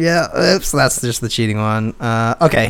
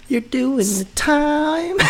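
mock stern judge; 5 dB quieter, much slower than usual. Mock sentencing the teen.

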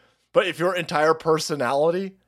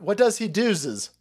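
mock slang; 4 semitones higher, slower than usual. Mocking the mangled grammar.

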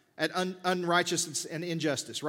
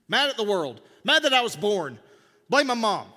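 louder, higher, rising indignation about angry people; worked-up preaching; 3 semitones higher, 4 dB louder than usual. Acted. Preacher mocks people who wake up mad, louder and higher. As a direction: hammer the point, getting heated.

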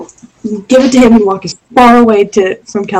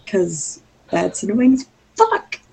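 muffled through her hands; face in hands; 6 dB quieter, slower than usual. Real, not acted. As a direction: speak into your palms. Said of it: "I'm just gonna do this, like, put my head in my hands".

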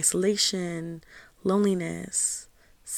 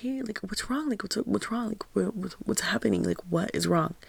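concerned grandma; 4 semitones higher than usual. Retold or imitated. Grandma calls to her crying grandchild, mildly concerned. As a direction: imitate a worried grandma, easing back toward usual pitch. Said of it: "And she's concerned".

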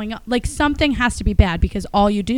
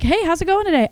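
radio host greeting; 10 semitones higher than usual. Retold or imitated. Radio host answering the call.

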